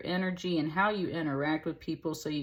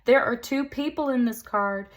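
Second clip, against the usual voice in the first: sassy card voice; 7 semitones higher, 5 dB louder than usual. Retold or imitated. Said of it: "it was like".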